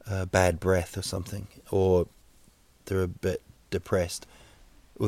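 ordinary talk, nothing marked

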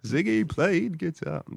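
high, drawn-out singer impression; sing-song imitation of a singer, stretching each word. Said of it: "there's a singer".

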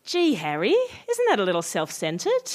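gently puncture the melodrama; deflating reply. Acted. Acted deflating reply to outburst.

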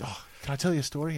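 lightly voiced old man, a bit quick; a hint of an old bloke telling a yarn. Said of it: "that old man voice".

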